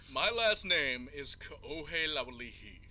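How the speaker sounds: "Kaohe Laualihi" said slowly, syllable by syllable; Hawaiian name said slowly. Shown as a demonstration. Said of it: "pantomimed my own last name".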